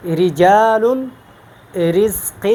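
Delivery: رجال stretched slowly with a light R; thin ra. Shown as a demonstration. Teacher comparing readings for students, thin ra. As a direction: keep the ra in رزق thin. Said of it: "میں باریک پڑھتا ہوں".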